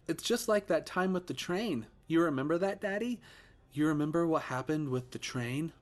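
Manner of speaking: put-on high, sing-song little boy; a child's voice with menace underneath; creepy child voice. Ghost son taunting his father, high and childlike.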